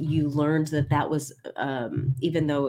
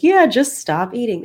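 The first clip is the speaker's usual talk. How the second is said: higher, louder breezy dismissive quote; mock Leanne advice; 9 semitones higher, 8 dB louder than usual. Coach mimicking a friend's glib diet advice, mock breezy. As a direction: toss off the advice like it's easy. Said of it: "Leanne's like".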